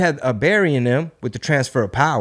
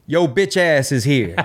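laughing. Pretend. Mocking sign on a map.

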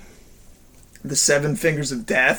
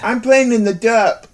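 put-on slow, higher little-kid voice; imitating a small child saying derp; 5 semitones higher, slower than usual. Mimicking a kindergartner who can't say dirt, higher and slow.

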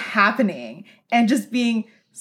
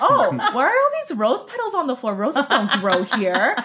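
mock puzzled surprise; 3 semitones higher than usual. Retold confusion at rose petals.

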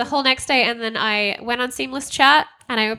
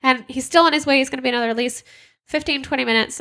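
swearing owner; 5 semitones higher than usual. Retold or imitated. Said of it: "The, uh, owner is now actually swearing".

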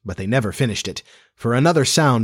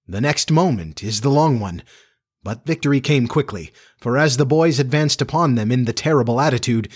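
story narration; 2 semitones lower than usual. A narrator's reading. Narrator tells listeners of wolves chasing a boy, measured storytelling.

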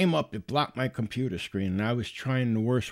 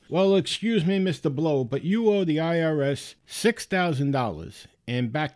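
lightly voiced officious caller, pitched up; scam caller; 4 semitones higher than usual. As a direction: imitate a phone scammer making his demand. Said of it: "very thick Indian accent".

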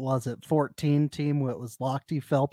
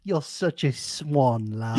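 lightly British; slower than usual. Pretend. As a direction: croon it in a lazy British accent. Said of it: "has that accent".

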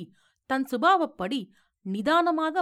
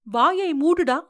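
loud, higher-pitched angry command; indignant outburst; 4 semitones higher, 7 dB louder than usual. A narrator's reading. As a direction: erupt at your son to silence him. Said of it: "என்று குமரி எழுந்தாள் பாட்டி". (கொதித்தெழுந்து அதட்டும் குரல்)

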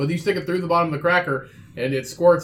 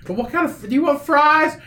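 put-on drunk tough-guy voice, pitched higher; drunk Sylvester Stallone; 11 semitones higher, 4 dB louder than usual. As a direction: lurch through it like a boozy action star. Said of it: "just sound like a drunk Sylvester Stallone".

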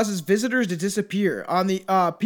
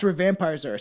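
plain; 3 semitones lower than usual. Shown as a demonstration. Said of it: "Say it a little louder".

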